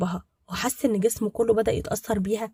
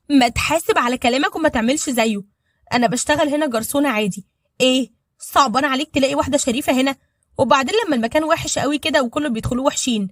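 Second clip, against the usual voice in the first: raised, louder, higher pitched retort; indignant outburst; 4 semitones higher, 5 dB louder than usual. Acted. Waitress rebukes the two men who insulted her, indignant and loud. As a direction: fire back hard at the insult.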